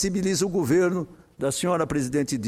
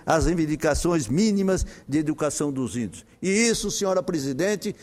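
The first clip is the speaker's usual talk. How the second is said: measured oratory with emphatic phrase openings and falling closes; formal parliamentary speech. Real, not acted. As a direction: read out firmly from the rostrum, each phrase projected. Reads a prepared Senate speech.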